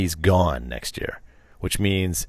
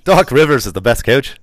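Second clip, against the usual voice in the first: mock Irish accent; 4 semitones higher, 6 dB louder than usual. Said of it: "bad coach".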